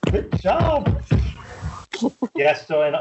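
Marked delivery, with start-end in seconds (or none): 0.1-1.0 high Good job, falling; sing-song Good job going down; mock praise. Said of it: "repeats mock praise".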